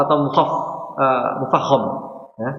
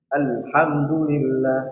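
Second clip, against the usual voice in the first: slow recitation demo; much slower than usual. Shown as a demonstration.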